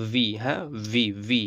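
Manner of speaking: "ভি" said as a long vee; demonstrated syllable. Shown as a demonstration. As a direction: model "ভি" with a held ee. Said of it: "বা ভি বলতে পারি".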